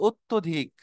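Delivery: অত্যধিক opening on a closed "ot-to"; careful pronunciation. Shown as a demonstration. Teacher asking students to note pronunciation, অত্যধিক carefully as "ottodhik". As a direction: say অত্যধিক clearly as "ot-to-dhik". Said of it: "উচ্চারণটা খেয়াল করো".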